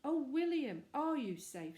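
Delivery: loud, high call of worry; a wife rushing in fearing for her husband; anxious cry. Acted. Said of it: "she cried".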